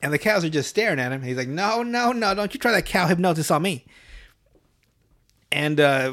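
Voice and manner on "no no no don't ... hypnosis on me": acted alarmed refusal. Conductor warding off staring cows, mock alarmed refusal. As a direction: protest in a mock panic.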